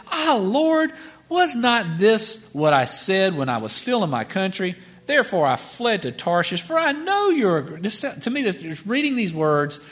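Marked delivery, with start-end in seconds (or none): 0.1-7.8 Jonah's complaint. Acted. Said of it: "So he prayed to the Lord and said".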